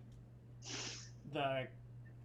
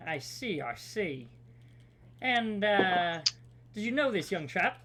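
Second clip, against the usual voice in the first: noir detective voice; 3 semitones higher, slower than usual. Acted. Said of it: "noir detective voice".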